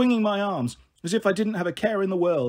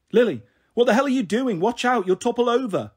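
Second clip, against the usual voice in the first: yelling up; 5 semitones higher, 3 dB louder than usual. Retold or imitated. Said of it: "Mum was yelling up at me".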